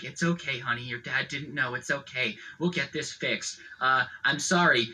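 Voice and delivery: pat her back with your voice; mock-gentle mom comforting her daughter; mock consoling mom. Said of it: "consoling her, patting her on the back, being like".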